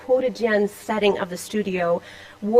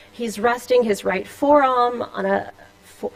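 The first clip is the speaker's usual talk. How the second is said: slipping into a Boston accent; a hint of Boston accent on forearm; 3 semitones higher than usual. Real, not acted. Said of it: "that was my Boston accent".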